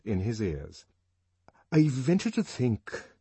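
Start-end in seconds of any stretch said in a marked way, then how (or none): 1.7-3.1 nervous stammer. A narrator's reading. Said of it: "stammered Bernard".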